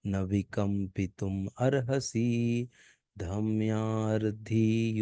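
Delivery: slow, smooth chanted Sanskrit verse; full verse recitation. Shown as a demonstration. Teacher showing the verse read through fluently, slow chant. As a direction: recite the whole verse evenly and slowly. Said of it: "अभी देखो".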